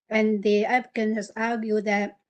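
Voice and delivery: talking around a candy; words slightly blocked by candy in mouth; mouth full. Real, not acted. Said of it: "sorry, I have candy in my mouth".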